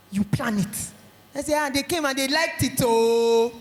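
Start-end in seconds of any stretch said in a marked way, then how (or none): 1.5-3.5 unimpressed oh. Retold or imitated. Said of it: "That's not, oh, is not wow".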